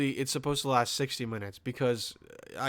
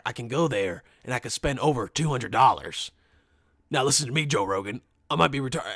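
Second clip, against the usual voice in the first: Alex Jones impression. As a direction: brag like a ranting radio host. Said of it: "that's Alex Jones".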